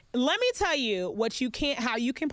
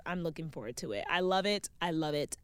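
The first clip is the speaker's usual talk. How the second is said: softening voice; 6 semitones lower, 5 dB quieter than usual. Real, not acted. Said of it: "if y'all hear it in my voice".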